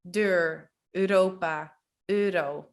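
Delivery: Deur, Europa, euro with open eu; eu before r. Shown as a demonstration. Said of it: "if it's followed by an R".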